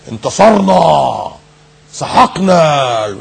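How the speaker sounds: very slow, drawn-out boasting; mock victory cry. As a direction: stretch each word in mock triumph. Imitating boastful victory report. (تباهٍ ساخر بكلمات ممطوطة)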